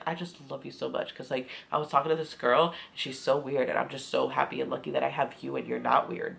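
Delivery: low, soft mock-devoted murmur; lightly mocking sweet talk; mock gushing. Mocking his gushing to her.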